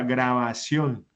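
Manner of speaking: drawn-out example. Shown as a demonstration. Teacher gives an example aguda.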